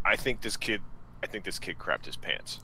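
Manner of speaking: hushed warning to a companion; hushed aside. Acted. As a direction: lean in and tell your partner quietly. Hushed aside about the kid.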